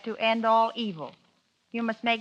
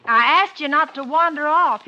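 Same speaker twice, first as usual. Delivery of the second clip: scolding; 4 semitones higher, 6 dB louder than usual. Acted. Wife scolding husband.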